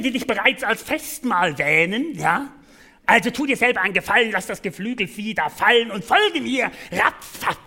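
sly sinister serpent voice; malicious hissing snake. Acted. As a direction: tempt him like an evil snake. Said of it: "zischelte die Schlange bösartig weiter".

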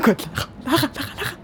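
calling Lara's name, rising. Acted. Calling out to Lara at the party. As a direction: call her name across the room.

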